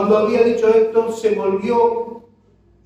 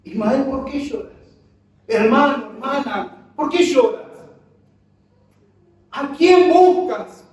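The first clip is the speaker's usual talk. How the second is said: preaching to the church; 2 semitones higher than usual. Real, not acted. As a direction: press the question home to each listener. Preacher turns question to congregation.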